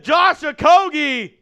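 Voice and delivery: high, loud shout with stretched words; excited scoring call. Real, not acted. Play-by-play caller celebrates a Rockets three, excited shout. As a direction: erupt as the shot drops. Calling a made three-pointer.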